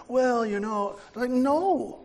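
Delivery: mock skeptic voice. Pastor mimicking a follower of false prophets, mock dismissive voice. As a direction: brush it off like a doubting follower.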